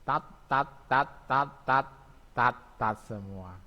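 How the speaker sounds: teacher modelling final t in "tat"; batchim demo. Shown as a demonstration. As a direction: drill "tat" again and again, crisp and clear. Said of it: "contohnya nih".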